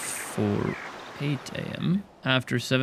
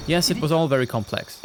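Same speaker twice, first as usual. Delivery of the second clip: sarcastic; 3 semitones higher than usual. Real, not acted. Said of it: "I say sarcastically to myself".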